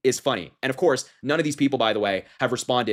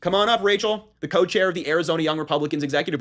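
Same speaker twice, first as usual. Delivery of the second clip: much higher and louder, a hammed-up host calling a contestant up; mock game-show host; 6 semitones higher, 3 dB louder than usual. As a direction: summon her like a game-show announcer again, big. Repeats mock host call.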